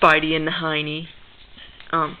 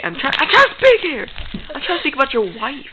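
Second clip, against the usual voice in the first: exasperated raised voice; 5 semitones higher, 3 dB louder than usual. Acted. Interrupted, raising voice.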